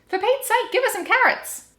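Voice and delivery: high, loud fed-up yell; exasperated shout. Acted. Family fed up with the wombat, yelling in exasperation.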